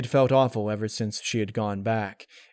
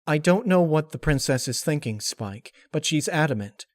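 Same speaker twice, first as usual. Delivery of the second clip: lightly raised, brisk unicorn voice; Twilight's voice; 5 semitones higher, 4 dB louder than usual. Acted. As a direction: break the news with feigned regret. Narrator voices imagined Twilight.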